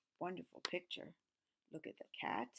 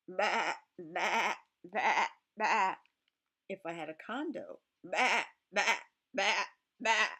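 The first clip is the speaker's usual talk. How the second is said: loud mock bleating; sheep bleat; 7 dB louder, slower than usual.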